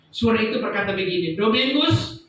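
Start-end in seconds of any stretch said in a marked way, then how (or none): 1.4-2.2 calling out the name, then a sudden loud higher call home; a loud heavenly voice ordering him back; retold calling voice. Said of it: "berteriak begini".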